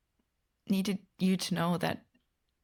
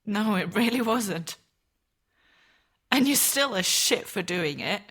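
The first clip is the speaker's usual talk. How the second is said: firm reproach; 5 dB louder than usual. Acted. Firm condemnation, louder.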